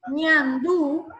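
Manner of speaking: "ñandú" with a nasal ñan; nasal first syllable. Shown as a demonstration. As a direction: send the opening of "ñandú" through the nose. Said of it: "en la primera sílaba hay esa, esa fuerza nasal".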